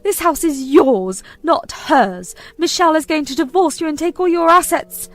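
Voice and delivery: high, loud outraged warning; shrill alarm at her name on the deed; furious mother. Acted. Mother raging at son about wife.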